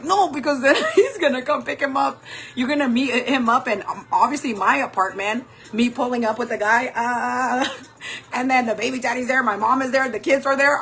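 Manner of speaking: mock panic with a nervous laugh; nervous, scared. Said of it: "kind of, like, nervous and scared".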